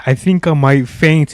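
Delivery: breathless, still winded; out of breath. Real, not acted. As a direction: talk while catching breath. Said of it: "I am out of breath".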